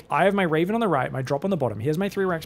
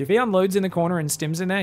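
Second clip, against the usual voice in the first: ordinary talk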